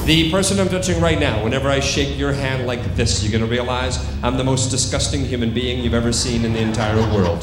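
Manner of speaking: firm, projected suggestion to a subject; stage hypnotist commands. Acted. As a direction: deliver it as a hypnotist's command to the room.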